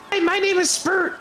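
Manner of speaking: tiny, very high kobold voice; Spurt. Acted. Little kobold introducing himself to Bug, very high voice. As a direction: pipe up as a really little creature. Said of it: "a really little one walks up".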